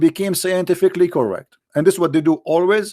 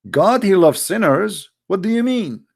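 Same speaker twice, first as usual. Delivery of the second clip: mock disbelief; 4 semitones higher than usual. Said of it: "he will take it wrong".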